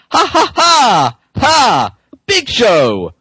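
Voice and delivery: high mocking ha ha; mean laugh. John Cena mocking Big Show, a mean laugh. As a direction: jeer and laugh at him. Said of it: "yelled John Cena meanly".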